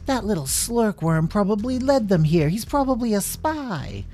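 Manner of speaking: high, indignant woman's accusation; accusing. Acted. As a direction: denounce the suspect to everyone, high-pitched. Woman points and accuses Dinky.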